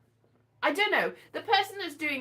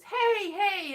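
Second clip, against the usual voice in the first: tag; 7 semitones higher, 4 dB louder than usual. Retold or imitated. Voices a relative making contact.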